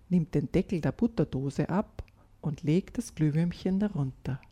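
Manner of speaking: put-on calm storyteller reading a children's tale; gentle read-aloud storytelling; story narration. A narrator's reading. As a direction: read it like a bedtime story for kids.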